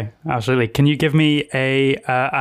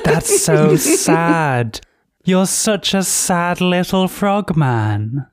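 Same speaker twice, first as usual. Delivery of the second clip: mocking crone voice; 4 semitones higher, much slower than usual. Hag mocks frog character.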